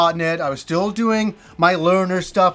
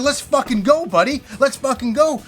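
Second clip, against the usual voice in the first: raised-pitch, retold dare to fight; fighting challenge; 5 semitones higher than usual. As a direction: goad him, acting out the confrontation.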